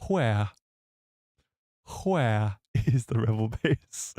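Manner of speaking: slow, low British villain with breathy "hw" on "Where"; Tarkin. Acted. Streamer playing Tarkin questioning Leia, hammed-up villain impression. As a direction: draw out the interrogation as a mimicked British officer. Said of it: "Give us a Tarkin talking to Leia impression".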